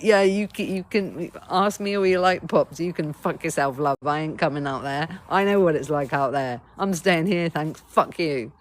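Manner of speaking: put-on sulky defiant child telling you where to go; defiant wounded child. Hurt inner child refusing the invitation: loud, defiant sulk. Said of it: "a little child who's been traumatized and pissed off".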